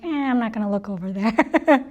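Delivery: low, dismissive mumble; put-off reluctance. Acted. Speaker reacting to a frowning listener, mildly put off. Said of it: "You frowning at me throughout this entire satsang".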